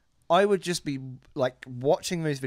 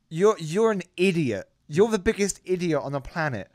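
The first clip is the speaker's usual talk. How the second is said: mock exasperation; 5 semitones higher, 4 dB louder than usual. Exasperated retort to show-offs.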